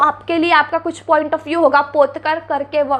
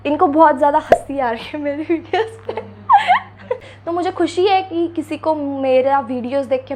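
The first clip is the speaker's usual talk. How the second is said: laughing. Real, not acted. Laughing at hater comment.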